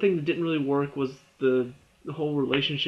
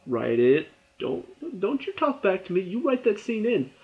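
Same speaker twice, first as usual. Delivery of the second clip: mock writers; 2 semitones higher than usual. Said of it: "they just say".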